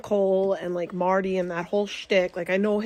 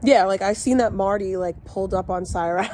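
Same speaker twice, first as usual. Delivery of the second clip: chewing gum. Real, not acted. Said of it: "I'm chewing gum right now".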